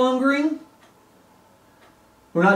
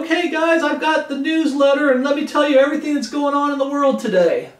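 mock newsletter announcer; 5 semitones higher than usual. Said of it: "he wasn't sitting there saying".

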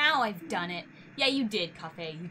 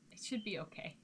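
whisper; 2 semitones lower, 9 dB quieter than usual. Real, not acted. Nervous before timed event.

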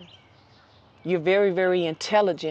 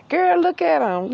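gossiping female bird, much higher and louder; excited gossiping hen; 9 semitones higher, 5 dB louder than usual. Pretend. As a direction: squeal it to your friend, all worked up. She's sitting around here telling.

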